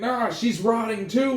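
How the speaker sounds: high, loud, drawn-out mock horror; horrified cry. Officer finding her rotting too, loud mock-horrified cry. Officer discovers second body.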